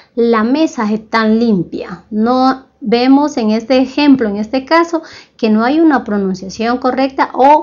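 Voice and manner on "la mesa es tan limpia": coastal Spanish accent with s sounds swallowed. Showing how coastal speakers say a sentence, coastal Spanish accent, dropped s. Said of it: "en la costa por lo general obvian o se olvidan de pronunciar o de acentuar bien el fonema S".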